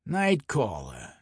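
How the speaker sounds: put-on Brooklyn accent. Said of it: "in his thick Brooklyn accent".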